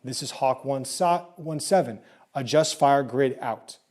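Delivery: slow, even radio reply; calm radio call for fire. Shown as a demonstration. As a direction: answer like a radio operator. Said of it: "return and say".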